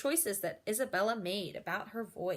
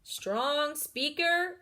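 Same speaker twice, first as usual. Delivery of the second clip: louder, slow and firm; strong voice; 5 semitones higher, 4 dB louder, much slower than usual. Shown as a demonstration. Teacher lists voice levels, strong one projected. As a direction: project it slowly like a speech. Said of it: "make the right choice".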